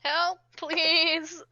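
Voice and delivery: drawn-out call for help; plaintive plea. Acted. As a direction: plead for rescue, dragging out the words. Character pleads for help in combat.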